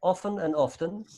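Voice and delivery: OFTEN as OFF-en, then OFF-ten; two often pronunciations. Shown as a demonstration. Teacher shows both are the same, both often pronunciations. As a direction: say "often" first without the t, then with it. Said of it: "It's the same".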